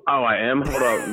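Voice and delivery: talking through a mouthful; mouth full. Real, not acted. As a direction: speak around a bite of food. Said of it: "I got food in my mouth".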